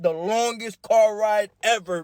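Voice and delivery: ordinary delivery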